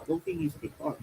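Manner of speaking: faint, distant-sounding voice; barely audible, far from the mic; sounding quiet. Real, not acted. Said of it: "you sound quiet".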